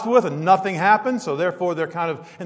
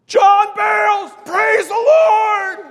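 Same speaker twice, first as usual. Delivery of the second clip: drawn-out, high, loud hail; booming shout; 13 semitones higher, 7 dB louder, much slower than usual. Retold or imitated. Old friend hailing John across the store, booming shout. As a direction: bellow it out, stretching every word. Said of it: "I hear this voice".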